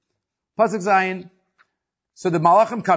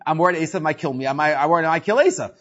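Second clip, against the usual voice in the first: quick mock phrasing; 2 semitones lower, faster than usual. Shown as a demonstration. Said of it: "It should say".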